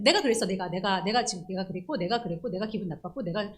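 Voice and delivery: loud stubborn me-me-me rant; a mock childish outburst; self-centred insisting. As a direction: insist like it's all about you. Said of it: "할 때 일 차원이에요".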